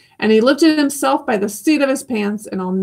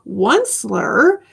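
croaking cry; 3 semitones higher than usual. Acted. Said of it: "he cried with a crufulous croak".

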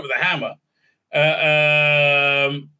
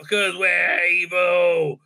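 mock villain, slow; much slower than usual. Voicing villains mockingly.

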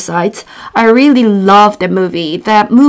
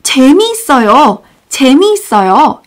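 enthusiastic demo; 3 semitones higher, faster than usual. Shown as a demonstration. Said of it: "you can say".

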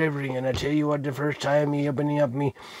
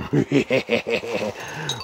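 drawn-out mock villain giggle; playful sinister giggle; 4 semitones lower than usual. Host after warning of doom, playful sinister giggle.

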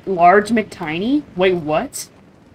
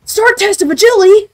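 booming game-announcer shout, pitched up; loud announcing shout; 14 semitones higher, 10 dB louder than usual. Acted. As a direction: call it out like an arena announcer. Game challenge called out.

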